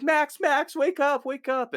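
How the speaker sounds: high, frantic calling; desperate pleading. Retold or imitated. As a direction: beg him to wake up. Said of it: "she's like".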